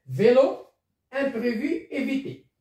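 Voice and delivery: é in "vélo", "imprévu", "évité" said as a closed, tight ay sound. Shown as a demonstration. Teacher modelling the closed é for students.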